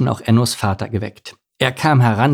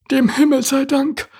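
sighing. Acted. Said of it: "seufzte Larissa".

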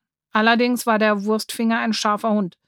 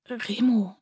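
blurted out; 4 dB quieter than usual. A narrator's reading. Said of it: "stieß Benny hervor".

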